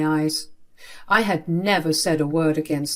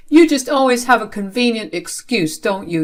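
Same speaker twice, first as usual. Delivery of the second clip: loud, raised accusation; angry scolding; 4 semitones higher, 5 dB louder than usual. Acted. Father dismissing child's excuse, angry scolding. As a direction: accuse them, high and loud.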